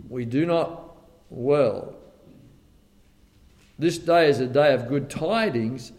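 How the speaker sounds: measured, solemn Bible reading; a touch of King James solemnity; scripture reading. Acted. Reads scripture aloud.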